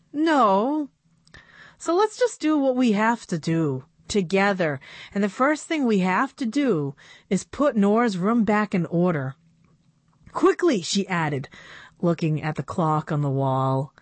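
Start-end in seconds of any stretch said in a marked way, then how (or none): 0.1-10.8 put-on slightly higher girlish voice; a hint of a young girl pleading; lightly voiced young girl. Narrator voices Annabelle.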